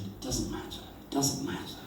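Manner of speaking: whispered, soothing; calm her down softly; soft whispered comfort; hushed reassurance. Retold or imitated.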